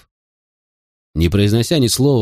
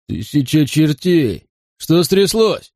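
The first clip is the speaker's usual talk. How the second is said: higher-pitched cry of alarm; startled exclamation; 6 semitones higher, slower than usual. A narrator's reading. Wayne, on seeing the scene below, startled exclamation. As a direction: exclaim it high, demanding to know what happened. Startled men discover the carnage.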